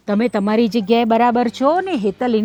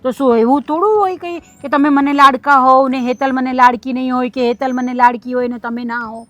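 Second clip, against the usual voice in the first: raised, pressing protest; pleading louder with daughter-in-law; insistent; 6 dB louder than usual. Acted. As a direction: make her believe you. Elder insists she loves both.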